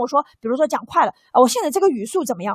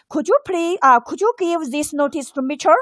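Could you give this notice to Mitchell with the pitch rising at the end; rising tune. Shown as a demonstration. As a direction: let the question climb up on Mitchell. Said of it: "她在上扬她的音调啊".

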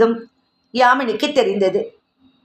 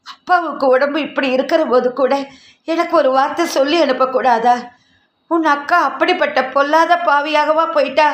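holding back tears; 3 semitones higher than usual. Acted. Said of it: "அழுகையை அடக்க மாட்டாதவளாக கரகரத்த குரலில்".

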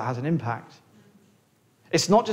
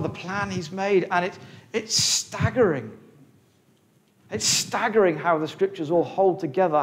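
higher, growing wonder; raised pitch, rising awe; awed excitement; 4 semitones higher than usual. Real, not acted. Preacher marvels at scripture.

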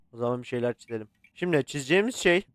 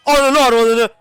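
sudden high yelled curse; startled curse; 9 semitones higher, 14 dB louder than usual. Real, not acted. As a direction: blurt it out in fright. Jump scare curse. (korkuyla bağırarak küfür)

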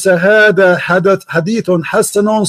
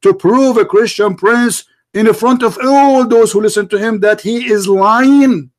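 raised, higher-pitched badgering; yelling; 3 semitones higher than usual. Real, not acted. Christian debater challenging caller to prove him wrong, yelling. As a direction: press the demand home, voice pitched up. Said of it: "why are you yelling".

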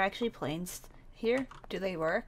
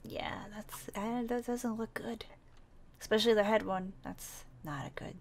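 soft unvoiced whisper about the wound; hushed whisper; 6 dB quieter than usual. Girl whispers worriedly about his head wound. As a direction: whisper it so he won't hear.

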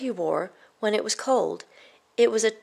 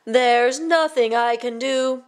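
shouted; 3 semitones higher, 4 dB louder, slower than usual. Acted. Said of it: "shouted the king".

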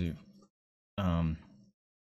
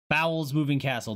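amused misreading; 5 semitones higher than usual. Real, not acted. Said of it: "That sounds like a terrible".

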